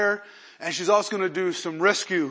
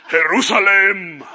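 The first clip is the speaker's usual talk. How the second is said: laughing mockery; 8 dB louder than usual. Real, not acted. Mocking the mother church.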